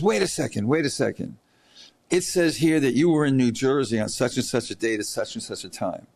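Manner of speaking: mock the prosecutor's pushy questioning; imitating the attorney. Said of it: "and she says".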